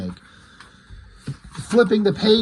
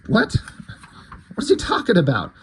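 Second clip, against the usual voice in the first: laughing in disbelief at the weird line; baffled what; 2 semitones higher than usual. Retold or imitated. Reader baffled by the stranger's words, laughs in disbelief. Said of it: "So I'm like".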